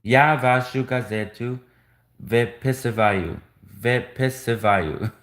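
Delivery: выписываю repeated slowly, vee-pee-see-va-yu; drilling a word. Shown as a demonstration. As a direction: say выписываю twice, slow and careful. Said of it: "Some of these Russian words are hard to pronounce".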